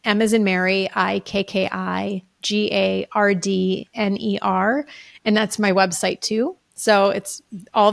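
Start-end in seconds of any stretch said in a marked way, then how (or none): 0.0-4.8 M as in Mary, then I K K I G A R D N E R each letter said apart; spelling it out. Shown as a demonstration. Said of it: "which is my name".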